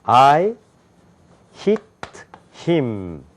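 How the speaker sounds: "I hit him" read out as three separate, evenly weighted words; Korean-style English. Shown as a demonstration. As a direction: say "I hit him" word by word at the front of the mouth. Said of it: "영어라고 우리가 읽는 거예요".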